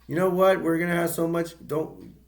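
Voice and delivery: overexcited dad pushing the trip; manic excitement. Retold or imitated. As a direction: ham up the crazed dad promising fun. Retells father's excited speech.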